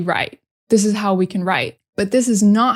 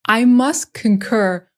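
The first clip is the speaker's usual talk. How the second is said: mock pompous king; slower than usual. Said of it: "What are you, a British king".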